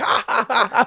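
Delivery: high, forced ha-ha-ha; fake laugh. Comic suggests faking a lone audience laugh, fake laugh. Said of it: "give you the fake laugh".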